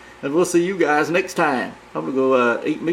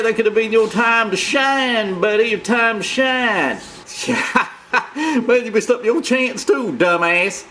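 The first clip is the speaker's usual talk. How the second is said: mocking taunt; 5 semitones higher than usual. Taunting the other persona.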